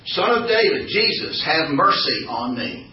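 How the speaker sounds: pleading call to Jesus; crying out. Acted. Blind man calling out to Jesus, pleading. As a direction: call out begging for mercy. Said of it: "he began to cry out".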